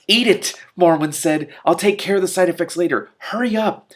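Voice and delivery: loud, high-pitched urgent order; urgent command. Acted. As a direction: bark the order, rushed. Morwen urgently commands Killer.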